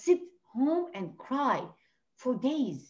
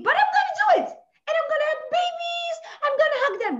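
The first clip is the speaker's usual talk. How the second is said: excited; 5 dB louder, faster than usual. Real, not acted. Dreaming of a new life.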